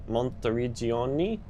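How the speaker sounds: Monteriggioni in a put-on Italian accent. Real, not acted. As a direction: give the place name an Italian lilt. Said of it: "put on that accent".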